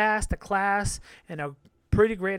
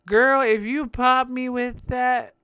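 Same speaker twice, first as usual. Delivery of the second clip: mock threat; 5 semitones higher, 7 dB louder, slower than usual.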